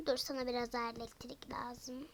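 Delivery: soft whispered aside. Acted. Playing with dolls, whispering the next step to herself. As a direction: whisper it as a secret to the doll. Doll-play aside, unvoiced.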